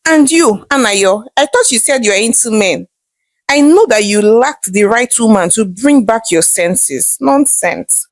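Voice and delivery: thrilled mother, then firmly dismissive; excited. Acted. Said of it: "replied excitedly".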